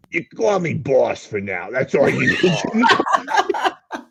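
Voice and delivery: mock boss voice. Boss character speaking to podcast.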